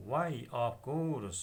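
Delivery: slow delighted reply. Acted. Chubukov's reply read slowly.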